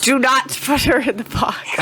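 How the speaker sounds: laughing shout. Real, not acted. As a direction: laugh through the words. Laughing reply.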